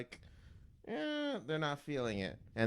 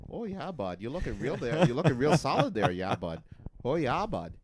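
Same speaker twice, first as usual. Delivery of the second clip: put-on Canadian accent; 5 dB louder than usual. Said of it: "I also do have a Canadian accent".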